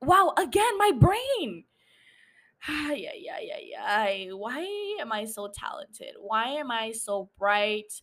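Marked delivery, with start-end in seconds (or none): 2.7-7.9 mock self-admiration. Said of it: "The delusion is kicking in".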